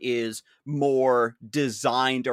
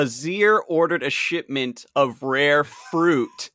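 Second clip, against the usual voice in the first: mock royal decree; 2 semitones higher, 5 dB louder than usual. Royal emperor voice.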